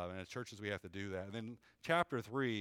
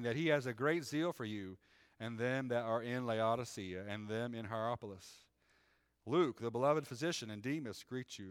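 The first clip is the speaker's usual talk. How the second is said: measured, raised reading voice; scripture reading. Acted. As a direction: read it like the pulpit Bible. Reads scripture aloud.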